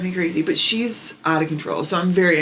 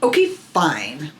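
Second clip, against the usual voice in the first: sulky okay fine; 2 semitones lower, much slower than usual. Retold or imitated. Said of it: "she does it like this".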